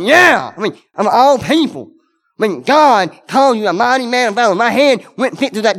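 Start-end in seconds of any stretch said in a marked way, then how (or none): 0.0-0.5 imitating a thrilled cheer, louder and higher; mock-cheer like someone just praised by God; excited yeah. Preacher imagining God's praise, excited cheer. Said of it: "I'd be like".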